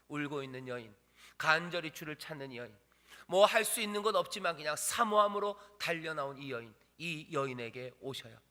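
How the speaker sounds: usual speaking voice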